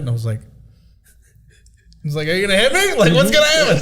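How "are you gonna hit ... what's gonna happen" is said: much higher, rising worry; nervous question. Retold or imitated. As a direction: ask it with edgy unease. Facing a man about to swing.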